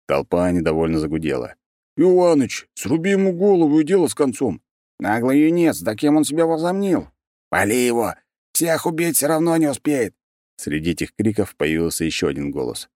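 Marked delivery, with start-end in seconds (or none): 2.0-4.6 high, loud angry heckle; angry shout. A narrator's reading. Angry mercenary calls from crowd. 5.0-10.1 angry shouting. A narrator's reading. Crowd shouts in anger.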